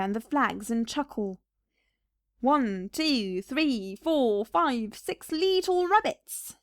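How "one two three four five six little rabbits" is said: a hint of the old gardener, slow at the end; lightly voiced McGregor. McGregor chuckling over his sack at home, lightly voiced. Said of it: "said Mister McGregor".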